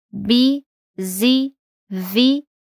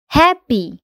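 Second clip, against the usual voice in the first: "Happy" with HA- stressed, -ppy light; stress on first syllable; 3 semitones higher than usual. Shown as a demonstration. Teacher models "Happy" for learners, stress on HA. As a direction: land on HA in "Happy". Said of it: "o stress geralmente tá na primeira sílaba".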